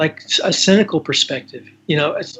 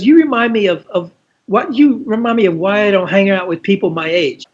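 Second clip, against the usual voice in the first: imitating Iris; 4 semitones higher than usual. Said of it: "she goes".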